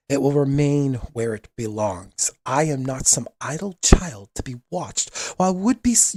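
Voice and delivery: slow, firm royal declaration; lightly voiced prince with steel behind it; defiant young prince. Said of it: "voice is just ringing so clear, and it's youthful, it's edged with steel".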